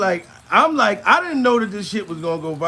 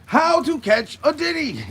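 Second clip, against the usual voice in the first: a slow, higher announcer-style title; mock show title; 8 semitones higher than usual. Comedian pitching his own TV show title, slow announcer style. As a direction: announce it like a TV special.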